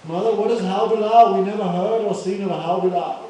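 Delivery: mock-frightened questioning; a little afraid. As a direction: imitate anxious children asking mother. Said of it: "little afraid".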